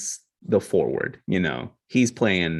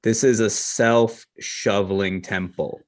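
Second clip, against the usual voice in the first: slow and loud condescending. Acted. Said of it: "like, slow and loud".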